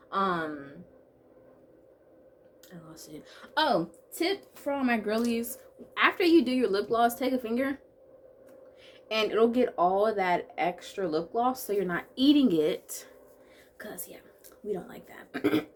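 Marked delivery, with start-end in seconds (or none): 2.7-3.2 breathless whisper, softer; whispered aside. Real, not acted. Losing her train of thought, she whispers the aside. 13.8-15.7 whispered aside. Real, not acted. Giving a lip gloss tip to her girlies, she whispers.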